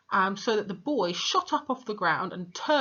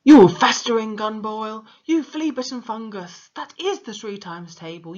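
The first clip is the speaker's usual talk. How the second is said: furious headmistress shout; 4 semitones higher, 11 dB louder than usual. Acted. Headmistress berating a boy at his desk, furious shout. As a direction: roar the insults, much louder and in a harsh put-on voice. Trunchbull raging at Wilfred.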